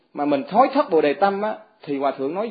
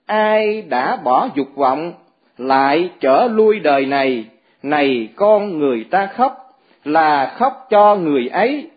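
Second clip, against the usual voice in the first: very slow, louder chanted verse, phrases drawn out; slow verse recitation; 4 dB louder, slower than usual. Acted. Mother answers her son with a verse, slow solemn chant. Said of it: "bằng một bài kệ như thế này".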